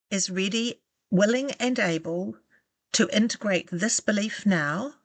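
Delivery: slow, with long pauses between phrases; slow spoken statement. Shown as a demonstration. Guide to listener, pausing so they can repeat after. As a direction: leave room for the listener to repeat each phrase. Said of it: "So I'll say it slowly".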